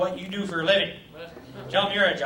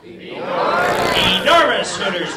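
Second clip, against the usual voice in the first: very slow, louder, drawn-out sentence; slow dictation; 6 dB louder, much slower than usual. Pretend. Teacher drilling the sentence slowly. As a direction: spell it out slowly for the class.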